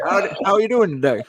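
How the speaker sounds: cheery Southern cowboy greeting; Southern accent. Pretend. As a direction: play a friendly Southern cowboy. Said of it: "little Southern accent".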